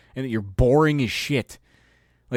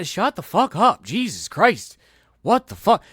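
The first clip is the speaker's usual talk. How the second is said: loud, high angry outburst; exasperated rant; 9 semitones higher, 5 dB louder than usual. Real, not acted. Fed up with loud rude girls, yelling. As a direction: yell it in disgust.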